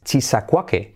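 CHISACUAQUE as "chi-sa-KWA-ke"; Spanish spelling reading. Shown as a demonstration. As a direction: read CHISACUAQUE syllable by syllable as written. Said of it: "cómo se escribe".

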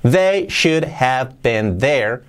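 slow, word by word before linking; separate words. Shown as a demonstration. Teacher models the phrase unlinked, slow and separate. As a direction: set each word apart, slowly. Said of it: "Si lo unimos".

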